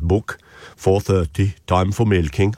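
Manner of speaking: a hint of a slow Swedish lilt on Book, four thirty; lightly Swedish-sounding. Host imitating the Amish farmer from Witness, lightly Swedish-sounding. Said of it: "I don't know why he sounds Swedish".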